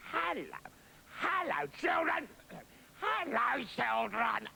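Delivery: high, sugary fake nice voice; wolf rehearsing a high nice voice; nice voice practice. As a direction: try to sound sweet and harmless. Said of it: "practiced speaking with a nice voice".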